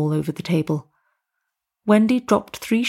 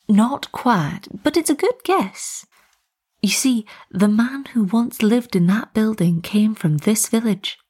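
storytelling tea lady. Acted. Tea lady telling students a village legend, animated. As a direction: relish the legend, stretching key words a little. Wendy tells the ravens legend.

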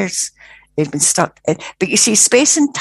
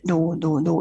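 quiet refusal; 5 dB quieter than usual. Retold or imitated. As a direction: murmur it, shutting the offer out. Spirit refuses again.

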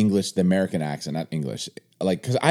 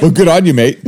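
put-on New Zealand accent; hammed-up Kiwi catchphrase; 6 semitones higher, 8 dB louder than usual. Shown as a demonstration. Host repeats his catchphrase, mock New Zealand accent. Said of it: "with my New Zealand accent".

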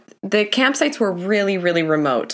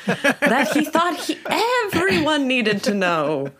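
hushed creepy legend telling; 6 semitones higher, slower than usual. Pretend. Mock spooky story narration.

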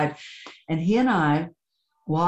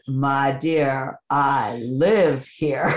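lower, slow and tender; gentle reply; 3 semitones lower, much slower than usual. Retold or imitated. Priest calmly answering the surprised mother, low and tender. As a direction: soothe her gently.

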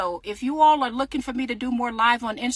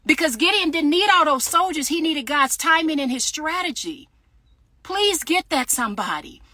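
speaking with conviction; 5 semitones higher than usual. Real, not acted. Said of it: "I'm speaking with conviction".

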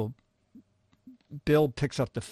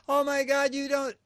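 much higher, astonished oh my God; shocked disbelief; 13 semitones higher than usual. Retold or imitated. Bill amazed the writer never had pork roll, shocked disbelief. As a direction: squeal it in mock disbelief.

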